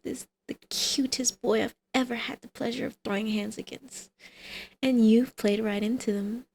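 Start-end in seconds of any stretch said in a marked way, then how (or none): 0.0-4.1 breathy, teasing whisper trailing off. Acted. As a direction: lean in and whisper the flirtation.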